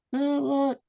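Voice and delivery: very high, puzzled reply; imitated bewilderment. Filmmaker hailed by a stranger in Hollywood, startled and high. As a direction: pitch it right up as if caught off guard.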